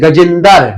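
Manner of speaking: गजेंदर with a vowel inserted, दर not द्र; गजेंदर said loosely, as villagers say it; village pronunciation. Shown as a demonstration. Teacher gives students the rural form of a name. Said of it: "गजेंद्र को क्या बोलते हैं".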